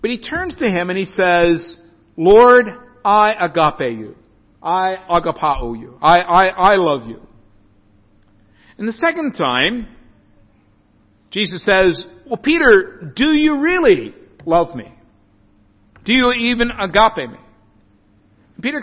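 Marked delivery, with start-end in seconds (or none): 2.2-7.2 earnest vow. Acted. Peter professing love, voiced. 12.2-17.4 pressing question. Acted. Jesus questioning Peter, voiced.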